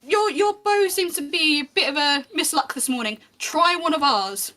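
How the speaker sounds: a lightly voiced watchman slipping her advice; quick friendly tip from the watchman; quick aside. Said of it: "quickly goes".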